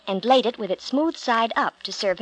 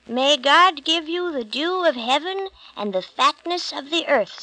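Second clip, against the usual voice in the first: a hint of an old blind father, solemnly intoning; solemn blessing; 5 semitones higher than usual. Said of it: "said Isaac as he gave the blessing".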